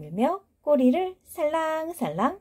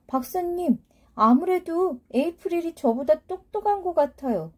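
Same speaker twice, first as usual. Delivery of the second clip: put-on high, eager little kid; young child voice; 5 semitones higher than usual. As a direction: speak like a curious young child. Child character Miyeok speaks.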